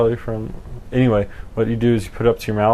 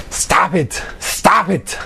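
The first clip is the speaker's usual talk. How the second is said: voice changer shout; 8 semitones higher, slower than usual. Pretend. Yelling through voice changer.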